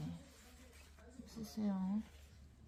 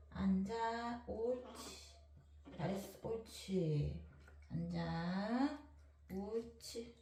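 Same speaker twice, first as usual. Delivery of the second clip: talking to a dog; 4 dB quieter than usual. Real, not acted. Soothing dog in bath.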